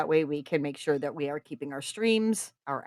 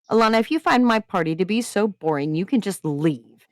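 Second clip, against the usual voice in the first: through gritted teeth; 3 semitones higher than usual. Acted. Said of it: "she said through gritted teeth".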